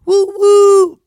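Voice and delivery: loud, high mock enthusiasm; sarcastic hype. Host gushing about working in Atlanta, sarcastic hype. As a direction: oversell the excitement, building to big whoops.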